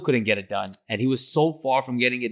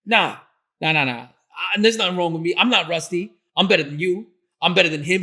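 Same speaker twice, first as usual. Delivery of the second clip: higher, louder, whiny imitation of a sulking kid; hammed-up playground boast; childish tantrum; 7 semitones higher, 3 dB louder than usual. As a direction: mimic a grown man bragging like a pouting child. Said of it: "It was like a kid".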